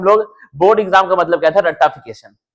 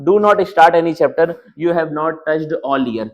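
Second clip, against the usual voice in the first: slow word-by-word reading; slow reading aloud; much slower than usual. Shown as a demonstration. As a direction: read the warning slowly off the slide. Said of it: "देखिए क्या लिखा हुआ है". (धीरे-धीरे पढ़कर सुनाना)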